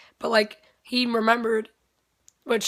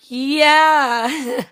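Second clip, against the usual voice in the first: higher, louder giddy yeah; flustered squeal; 4 semitones higher, 6 dB louder than usual. Retold or imitated. A fan flustered in front of her idol, squealing yes. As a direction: blurt it out, starstruck and flustered.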